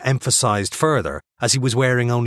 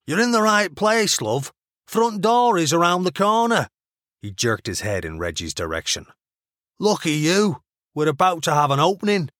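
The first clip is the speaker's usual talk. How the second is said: higher character voice, dry and blunt; gruff doorman Ox; 10 semitones higher than usual. A narrator's reading. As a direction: wave her off with dry humour. Ox voiced by narrator.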